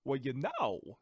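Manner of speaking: odd actor's cadence, drawn-out "know"; Christopher Walken. Acted. Imitating a distinctive actor, know broken in two. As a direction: stretch KNOW into two syllables. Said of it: "a one syllable word and turn it into two".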